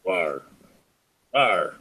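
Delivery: playful little monster growl; soft mock roar for a beast mask; cute rawr. Wearing horned beast mask.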